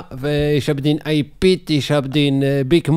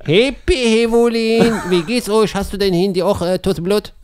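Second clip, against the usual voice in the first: Hamza character voice; 5 semitones higher than usual. Acted. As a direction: ham up a clumsy cheerful greeting. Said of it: "Die Geschichte von Hamza".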